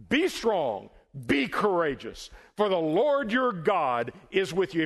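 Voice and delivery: emphatic scripture proclamation; bold charge. Acted. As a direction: charge them firmly, like a commander. Quotes God's charge to Joshua.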